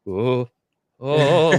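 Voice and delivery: loud mock "oh" of someone slipping; imitated slipping noises. Imitating people slipping down the icy street, mock alarm. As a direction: wail like someone losing their footing. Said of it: "you can see people, like".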